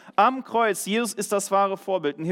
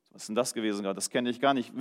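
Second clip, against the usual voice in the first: lower, softer, baffled musing; puzzled inner thought; 7 semitones lower, 6 dB quieter, faster than usual. Retold or imitated. Preacher recalling waking after sleep, quietly amazed. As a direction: hush it like a private wonder.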